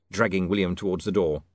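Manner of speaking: plain reading voice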